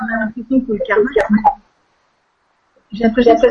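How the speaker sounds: breaking up over a bad line; choppy connection. Real, not acted. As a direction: voice cutting in and out. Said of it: "Ça coupe, on t'entend plus".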